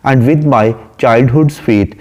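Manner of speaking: slow, measured poem reading; unhurried English verse reading; poem recitation. Shown as a demonstration. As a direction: recite the line slowly, savouring it. Reads poem line slowly.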